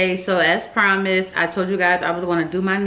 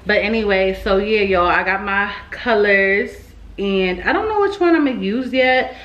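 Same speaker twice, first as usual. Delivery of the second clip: slightly slurred speech with retainers in; wearing a retainer. Real, not acted. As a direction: talk around a retainer in the mouth. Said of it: "if I sound a little, that's 'cause I, um, got my retainers in".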